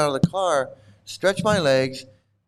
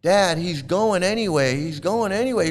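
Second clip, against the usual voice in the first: tattling son; 5 semitones higher than usual. Retold or imitated. Son alerting his dad that passenger left, mock tattling. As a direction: lightly imitate a son telling on someone. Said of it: "his son is going".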